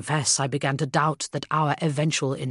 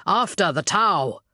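slow, loud rallying command; gruff barked parade orders; 3 semitones higher, 4 dB louder, slower than usual. Acted. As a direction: call the charge deliberately. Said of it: "I ordered".

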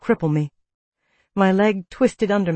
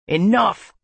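growled; 3 semitones higher, 3 dB louder than usual. A narrator's reading. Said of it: "Kyle growled".

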